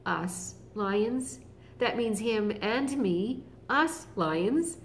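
proud lion. Acted. Other lion boasting to everyone he meets, proud. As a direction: puff up with pride. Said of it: "to say to everyone he met".

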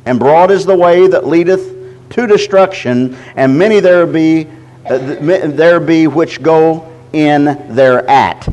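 slow, measured reading of scripture. Acted. Preacher reading scripture to his church, slow and measured. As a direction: read the verse out to the church, deliberately.

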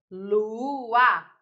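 "lua" stretched into lu-a; drawn-out lu... a; syllable by syllable. Shown as a demonstration. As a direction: say "lua" as two slow beats, lu, a. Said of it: "quando eu separo a sílaba".

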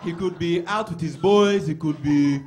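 put-on accented father reasoning aloud; imitated dad. Dad guessing where his son is, mock deliberation. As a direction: weigh options loudly, then conclude with mock certainty. Continues dad's imagined reasoning.

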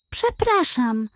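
slow, hesitant call; a timid, slow excuse me to the gull; unsure call. Acted. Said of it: "zawołała niepewnie".

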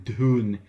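game, emphatic stab at foreign "Dun"; attempted Tibetan pronunciation. Shown as a demonstration. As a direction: have a go at Tibetan "Dun", punched out. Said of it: "not going to attempt to pronounce these".

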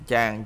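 "trang" with its first sound voiced in the throat; throaty voiced consonant. Shown as a demonstration. Teacher shows learners a voiced sound, "trang" throaty. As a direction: keep the start of "trang" down in the throat. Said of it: "chữ trang trong họng luôn".

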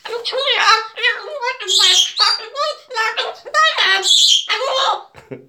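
long high teary laugh; helpless laughter. Real, not acted. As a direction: laugh till near tears. Overcome with laughter on stream.

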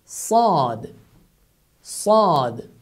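"Sad" with a heavy, dark emphatic s. Shown as a demonstration. Teacher shows the stronger emphatic sad. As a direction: say "Sad" stronger, mouth full. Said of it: "As if you have put something in your mouth".

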